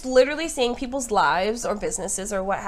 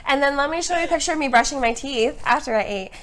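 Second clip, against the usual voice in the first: lightly mocked Valley girl chatter; a hint of Valley girl in a mock show-and-tell; 3 semitones higher than usual. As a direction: imitate an oversharing Valley girl, rattling on faster as it builds. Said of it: "sounding like a Valley girl".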